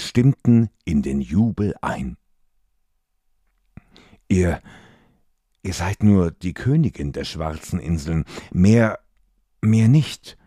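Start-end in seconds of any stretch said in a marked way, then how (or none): 4.3-10.4 breathless, exhausted defiance; exhausted gasping. Acted. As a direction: gasp it out, worn out. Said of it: "keuchte Scully erschöpft".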